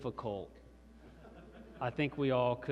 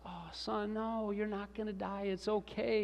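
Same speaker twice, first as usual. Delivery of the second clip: reassuring dad; 7 semitones higher, 5 dB quieter than usual. Retold or imitated. Dad soothes crying son in story.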